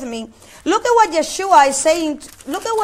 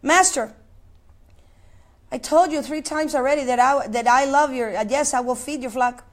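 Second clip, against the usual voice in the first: retold crying; 4 semitones lower, 4 dB quieter than usual. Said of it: "he started crying".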